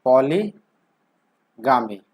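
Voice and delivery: पॉलीगामी stretched out very slowly; slow teaching drawl. Shown as a demonstration. Teacher introducing a new root word, very slow. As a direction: spell out पॉलीगामी slowly so it sticks. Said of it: "एक root word होगा".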